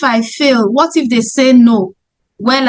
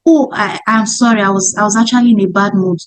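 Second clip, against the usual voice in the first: fast, lower sheepish apology; apologetic prospect; 4 semitones lower, faster than usual. Retold or imitated. Rude prospect apologising to the saleswoman, fast and lower. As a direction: blurt out a lower, hurried sorry. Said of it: "come back and say".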